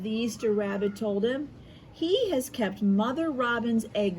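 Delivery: lively read-aloud storytelling with voiced quotes; story narration. A narrator's reading. Teacher reading an Easter story to her class, lively storytelling. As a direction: read it like a picture book to young kids.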